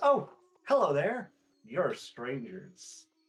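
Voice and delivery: tiny little-person voice with swooping pitch. Narrating a scene where a tiny person flits up in front of you, Lily Starsparkle voice. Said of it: "this little like seven inch tall person uh, flits up in front of you and goes".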